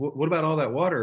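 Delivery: lightly done put-on Wisconsin accent. Retelling what a golfing partner asked on the tee: imitating a Wisconsin accent. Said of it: "she's got this nice little accent".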